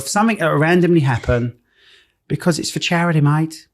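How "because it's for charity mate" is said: a light Aussie twang on charity, mate; Australian accent. Acted. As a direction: throw in a mild Australian accent. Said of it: "I don't know why I've gone Australian".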